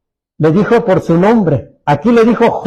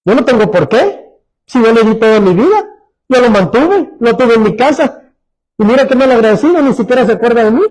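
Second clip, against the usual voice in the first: ungrateful complainer; 2 semitones higher than usual. Retold or imitated. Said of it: "así hablan".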